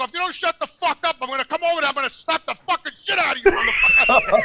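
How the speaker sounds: mock threat that builds to a big yell on motherfucker; retold threat. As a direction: ham up the restaurant threat. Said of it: "I go".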